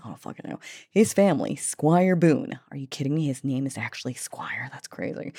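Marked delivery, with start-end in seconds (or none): 0.9-2.6 Southern accent. Real, not acted. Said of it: "Why do I have a Southern accent".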